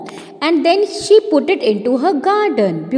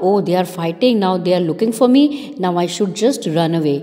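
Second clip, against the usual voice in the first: hurried turtle; 6 semitones lower, much faster than usual. Acted. Toto deciding to flee.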